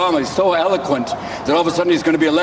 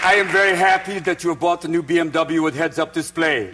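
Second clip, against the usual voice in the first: put-on German accent.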